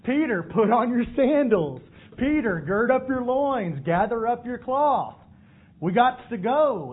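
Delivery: put-on slow, deliberate coaching like to a sleepy child; patient step-by-step instructions. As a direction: spell out each step slowly, a bit loud. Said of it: "much like I'm talking to my daughter".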